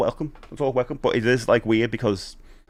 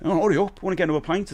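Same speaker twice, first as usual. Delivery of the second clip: impatient drinker; 7 semitones higher, faster than usual. Retold or imitated. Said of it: "when people used to drink fast".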